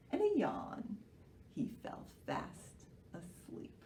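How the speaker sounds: soft, slow whispered ending; sleepy whisper. A narrator's reading. Narrator settling Sloth to sleep, softly whispered.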